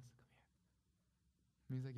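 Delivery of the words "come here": barely audible beckoning; confidential hush. Retold or imitated. Janitor checks nobody is listening and beckons, hushed. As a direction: draw the listener in secretly. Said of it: "he leans in and he goes".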